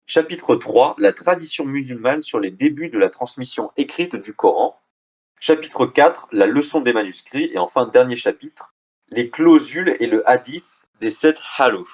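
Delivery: deliberate, articulated title reading; reading out chapter titles. Acted. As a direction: read each title out like a list of headings.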